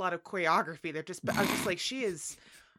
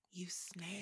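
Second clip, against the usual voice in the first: soft, cold delivery of an insult; quiet contempt; 15 dB quieter than usual. Retold or imitated. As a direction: hiss it quietly with disdain. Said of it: "the perfect line delivery of".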